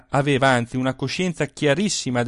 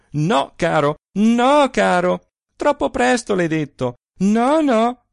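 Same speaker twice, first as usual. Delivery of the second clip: louder, higher laughing refusal; playful shout; 7 semitones higher, 6 dB louder, slower than usual. A narrator's reading. Wife crying out to keep her husband away, louder and playful. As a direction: fend him off, loud and teasing. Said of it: "schermandosi e gridando a sua volta".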